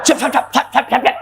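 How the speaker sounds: high laughing shush-shush. Real, not acted. Laughing as he hushes the crowd. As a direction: hush them while laughing.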